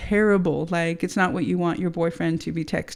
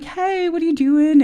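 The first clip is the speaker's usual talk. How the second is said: high, louder phone greeting; put-on casual greeting; 10 semitones higher, 6 dB louder than usual. Calling boyfriend to confront him, put-on casual greeting. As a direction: replay an airy hey on the phone.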